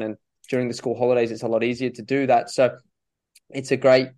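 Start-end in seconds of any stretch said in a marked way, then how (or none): 3.5-4.1 choking, throat catching; choking on a drink. Real, not acted. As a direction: talk through a choke in the throat. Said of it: "I'm just, uh, choking over here".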